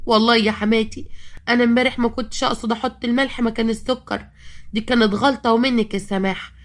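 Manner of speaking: lightly pleading, put-on innocence; feigned meekness. Retelling her apology to mother-in-law, mock-meek. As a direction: act the poor innocent, understated. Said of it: "وقمت قايلة لحماتي بمسكنة".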